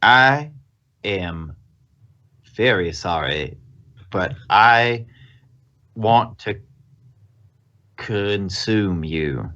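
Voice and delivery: slow, halting creature voice, phrases parted by long pauses; halting menace. Acted. Game master voices a creature confessing hunger to a player, halting menace.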